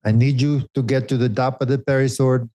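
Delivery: put-on a light take on his sporting director's accent; mildly imitating the director's accent over the race radio; Johan's accent. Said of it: "Is that my accent?".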